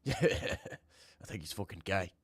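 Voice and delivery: drawn out through a laugh; slow laughing repeat. Shown as a demonstration. Streamer laughs rereading a viewer's message, slow and amused. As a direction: laugh while slowly saying it again.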